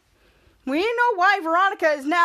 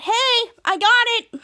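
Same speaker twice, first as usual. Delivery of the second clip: higher, louder and slow, a bright sing-song hello; cheery Piper; 7 semitones higher, 5 dB louder, slower than usual. Retold or imitated. Piper showing up with a sledgehammer, higher and slow. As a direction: announce it proudly and slowly.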